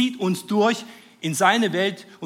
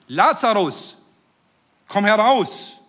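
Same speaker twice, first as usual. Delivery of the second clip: calling loudly into the tomb, higher and louder; a ringing command for the dead man to come out; 6 semitones higher, 7 dB louder, slower than usual. A narrator's reading. Jesus calls Lazarus out of the grave, loud ringing command. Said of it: "rief er laut, mit lauter Stimme".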